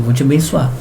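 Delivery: half-hearted. Retold or imitated. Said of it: "Meio assim, né?".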